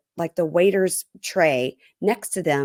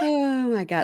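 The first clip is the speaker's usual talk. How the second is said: shocked; 7 semitones higher than usual. Real, not acted. Shocked reaction to the decor.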